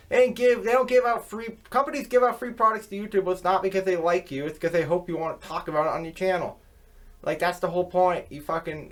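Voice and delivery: heated rant. Real, not acted. Ranting at shill YouTubers.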